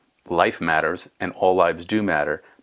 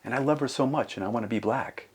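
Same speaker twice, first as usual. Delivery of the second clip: put-on gentle, raised small-child voice; young daughter; 4 semitones higher than usual. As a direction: imitate a child earnestly explaining to Dad. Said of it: "And she said".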